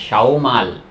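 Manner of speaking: शाओ माल run together as one phrase. Shown as a demonstration. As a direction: link शाओ माल smoothly. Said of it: "इसको together बोल".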